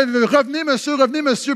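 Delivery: calling back. Retold or imitated. Store staff to a customer walking out, calling back.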